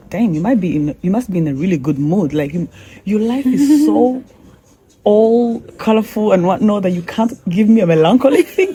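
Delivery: playful mock needling, rising high at the end; teasing. Teasing producer Bob about his good mood, playfully mocking. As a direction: rib him like an old friend. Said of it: "And I started teasing him".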